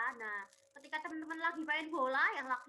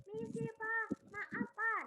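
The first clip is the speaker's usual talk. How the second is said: put-on higher, courteous child's apology; polite interruption; 7 semitones higher, much slower than usual. Shown as a demonstration. Well-behaved child interrupting Papa, polite and apologetic. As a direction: gently excuse yourself. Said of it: "Sebagai anak soleh-soleha kita bilang".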